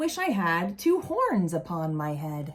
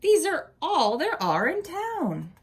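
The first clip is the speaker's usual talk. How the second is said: slow, teasing brag; mocking boast to Big Bill; 3 semitones higher than usual. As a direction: rub it in, taunting. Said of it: "I would say".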